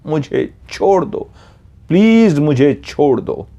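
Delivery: high-pitched, drawn-out plea; desperate pleading. Retold or imitated. Captured girl begs the two girls to release her, retold as desperate pleading. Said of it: "आवाज़ आ रही थी".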